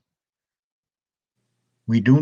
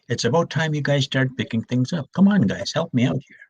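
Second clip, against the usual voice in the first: light, coaxing ask to tidy up; gentle coaxing; 4 semitones higher than usual. Retold or imitated. Grandfather to granddaughters, gentle coaxing. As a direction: coax them kindly, not scolding. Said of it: "I just say".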